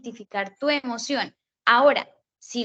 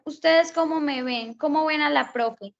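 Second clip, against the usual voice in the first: put-on teacher quizzing kids; 4 semitones higher than usual. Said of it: "O uno les pregunta".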